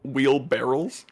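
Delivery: slow wheelbarrows with an L before the S, rising; wheelbarrows as wheel-barrels. Retold or imitated. Querying a friend's mistake, wheelbarrows said as wheel-barrels. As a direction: question wheelbarrows as "wheel-BARR-ulz". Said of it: "you thought they were called".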